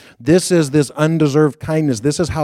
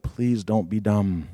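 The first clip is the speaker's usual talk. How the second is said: nervous self-talk; 6 semitones lower, 8 dB quieter, slower than usual. Retold or imitated. Nervous self-talk before meeting her.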